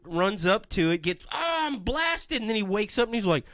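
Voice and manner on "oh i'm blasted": high, slow hammed-up groan of a line; mock zapped. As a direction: play the cartoon victim being hit. Walton voiced getting zapped.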